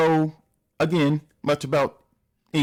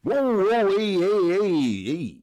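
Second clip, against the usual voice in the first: mock protest; 5 semitones higher, much slower than usual. Real, not acted. Reactor objecting to whiskey joke.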